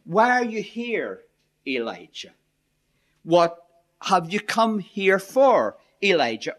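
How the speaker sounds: a simple question. Shown as a demonstration. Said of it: "simply be read as what they are, a question".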